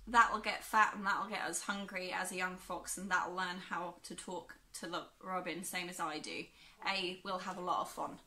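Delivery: a lightly put-on, self-consciously bad Yorkshire accent; terrible Yorkshire accent. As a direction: read the quote in a clumsy Yorkshire dialect. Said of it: "it's my terrible accent".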